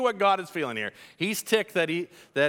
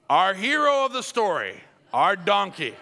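emphatic shout; 2 semitones higher, 4 dB louder than usual. Real, not acted. Preacher announcing the story's hero.

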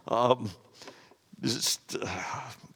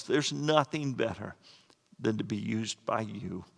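closing prayer. Acted. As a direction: pray for the listeners, unhurried.

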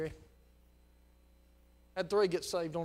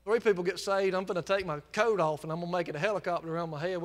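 excited preaching; 5 dB louder than usual. Real, not acted. Preacher exults over salvations.

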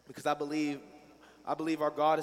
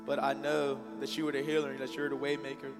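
prayer. Real, not acted. Leads congregation in prayer.

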